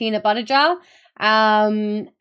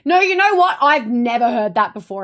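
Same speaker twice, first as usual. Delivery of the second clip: a hint of an insistent older coworker, louder; loud mock protest; lightly voiced older lady; 6 dB louder than usual. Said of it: "And then the older lady goes".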